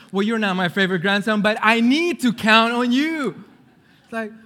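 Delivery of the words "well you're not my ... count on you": put-on loud, emphatic grandma with Spanish accent; grandma's Spanish accent. Grandma needing to count on grandson, insistent Spanish accent. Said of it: "she speaks with a little accent".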